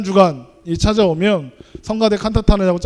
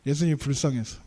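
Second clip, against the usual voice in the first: a soft, much quieter echo of 예수님이 불쌍해서; echoing the child, hushed; 7 semitones lower, 10 dB quieter than usual. Retold or imitated. Preacher quietly repeats the child's answer to the congregation, hushed. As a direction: let 예수님이 불쌍해서 drop away, hushed. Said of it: "뭐라고 대답하냐면".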